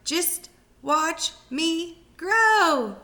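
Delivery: very slow, high, loud crowing; boastful old grandma. Acted. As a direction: drag out every word, gloating. Grandma boasting while growing.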